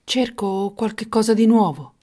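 hesitant, befuddled voice; bewildered. Acted. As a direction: answer as if lost and dazed. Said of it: "con aria smarrita".

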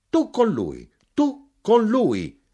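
high, loud, hammering affirmation; shouted. A narrator's reading. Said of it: "gridai io".

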